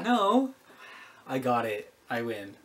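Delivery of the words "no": higher, louder denial; loud protest. Real, not acted. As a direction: shout the denial. Protesting he failed.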